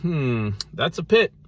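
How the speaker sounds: lightly voiced analyst, rising high at the end; mock-analytical appraisal; analytical Christian. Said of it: "an analytical Christian walked by and said".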